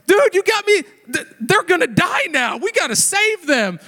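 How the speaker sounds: high, loud mock alarm; mock panic. Dad pretending panic to keep son saving snails. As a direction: ham up the urgency. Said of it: "I was like".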